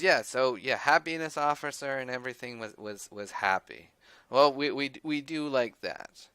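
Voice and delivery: a bright, loud put-on official; eager official. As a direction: gush like a pleased bureaucrat. Indigo character continues debriefing.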